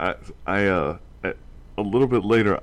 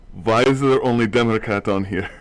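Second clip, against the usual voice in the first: put-on Russian accent; 2 semitones higher, 5 dB louder than usual. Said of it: "now I am also speaking in a Russian accent".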